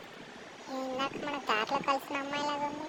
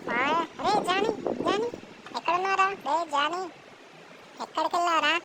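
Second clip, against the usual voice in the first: calling out; 5 semitones higher than usual. Acted. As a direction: shout for the missing friend, worried. Searching for missing friend at night.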